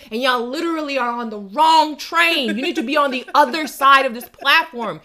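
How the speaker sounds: loud, high telling-off; exasperated rant. Acted. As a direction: scold them at full volume. Berating tourists on the train.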